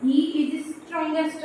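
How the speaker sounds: every word drawn out while writing it on the board; very slow dictation. Shown as a demonstration. Teacher writing the sentence for students, very slow dictation. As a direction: stretch each word as you write it. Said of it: "हमने यहाँ पे लिख दिया".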